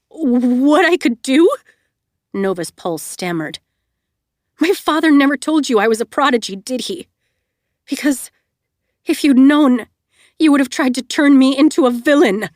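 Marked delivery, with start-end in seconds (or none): 0.1-1.5 alarmed. A narrator's reading. Alarmed echo. 4.6-12.5 accusing. A narrator's reading. Accusing realization.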